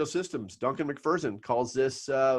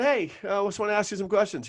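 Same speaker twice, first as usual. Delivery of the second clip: mentor's voice; 8 semitones higher, faster than usual. Retold or imitated. Retelling mentor's questions.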